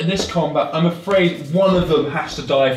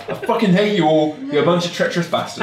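mock rage; 4 semitones higher, faster than usual. Real, not acted. GM furious at dice rolls.

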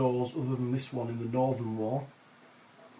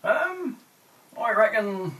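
put-on Cornish accent; 9 semitones higher, slower than usual.

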